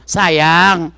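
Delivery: put-on soft coaxing to a child; a mother softly coaxing her child to eat. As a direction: coax the child gently to eat. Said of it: "dia rayu, dia bujuk".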